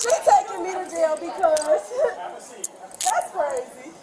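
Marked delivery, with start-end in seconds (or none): 1.9-2.4 short, soft laugh of disbelief; disbelieving laugh. Real, not acted. Woman being taken to jail, soft disbelieving laugh. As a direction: let out a brief incredulous laugh.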